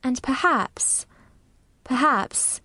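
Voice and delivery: gently slow, low storytelling voice. A narrator's reading. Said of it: "very slowly and in a very low voice".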